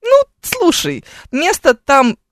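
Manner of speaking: normal talking voice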